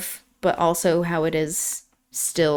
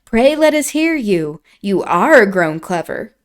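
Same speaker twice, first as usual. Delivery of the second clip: eager coaxing; 4 dB louder than usual. Acted. Catherine coaxing Hareton to read.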